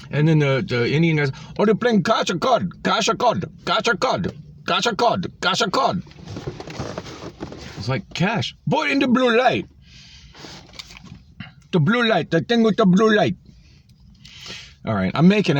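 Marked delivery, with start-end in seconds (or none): 1.6-6.0 high, repetitive mock Indian English accent. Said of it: "he's got such a strong accent". 8.1-12.3 high, repetitive mock Indian English accent. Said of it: "he's got such a strong accent". 12.3-13.4 "the thing with the blue light" in a high mock Indian English accent. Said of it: "he's got such a strong accent".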